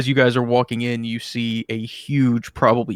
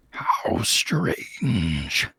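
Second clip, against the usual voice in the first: demon whisper; 5 semitones lower, 5 dB quieter than usual. Acted. Demon speaking, unvoiced whisper.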